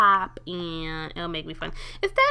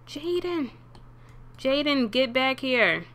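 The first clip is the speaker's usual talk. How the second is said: higher call after him; 4 semitones higher, slower than usual. Real, not acted. Calling after running sim.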